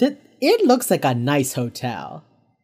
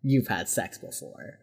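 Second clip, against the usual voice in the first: low, quiet mock dismay; 8 semitones lower, 9 dB quieter, slower than usual. Reed learning his friend's secret, quietly dismayed. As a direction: drop it low and slow, like an awful realization. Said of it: "that's the look on Reed's face".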